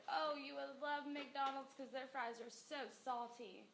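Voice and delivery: slow, coaxing sales voice; drawn-out selling tone; persuasive pitch. Shown as a demonstration. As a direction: sell the fries like an ad. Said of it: "if I said".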